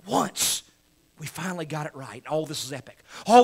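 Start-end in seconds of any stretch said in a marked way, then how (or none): 0.1-0.6 breathy whispered "Once"; whispered echo. Real, not acted. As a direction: drop to a hushed whisper. Repeats word in hush.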